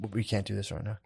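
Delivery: low, soft and detached; calm shutdown. Acted. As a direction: drop to a quiet, even refusal. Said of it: "it just goes like this".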